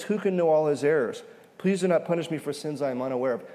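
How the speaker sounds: first take, read out loud and fast; forceful reading. Shown as a demonstration. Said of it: "and then the shift is personal".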